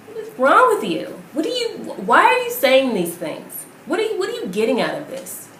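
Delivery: indignant rant; angry disbelief. Real, not acted. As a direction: demand answers, incensed. Ranting at a pundit.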